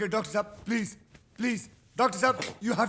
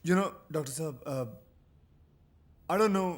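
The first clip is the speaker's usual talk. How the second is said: low, hushed, hesitant voice; speaking too softly; 10 semitones lower, 9 dB quieter than usual. Acted. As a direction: confide quietly, with halting pauses. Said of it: "इतने धीरे से क्यों बोल रहे हो".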